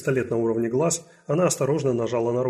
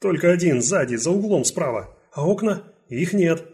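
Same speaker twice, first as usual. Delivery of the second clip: urgent answer; 5 semitones higher, 4 dB louder than usual. Acted. Guard answers detective.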